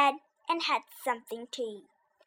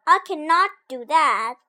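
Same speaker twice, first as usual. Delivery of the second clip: shouted; 3 semitones higher, 7 dB louder than usual. Acted. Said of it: "shouted Toad".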